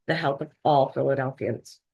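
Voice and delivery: ALL given deliberate emphasis; stress on ALL. Real, not acted. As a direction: lean on the word "all". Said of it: "I emphasize the word all".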